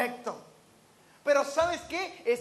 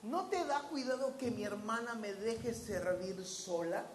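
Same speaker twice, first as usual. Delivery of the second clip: Martha's complaint; 3 semitones lower, 7 dB quieter than usual. Retold or imitated. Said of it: "y le dice".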